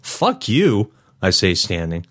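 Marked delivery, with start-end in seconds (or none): 0.0-0.9 high-pitched angry retort; defiant flare of temper; angry outburst. A narrator's reading. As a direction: throw it out with pitch leaping up. Narrator acts out angry confrontation.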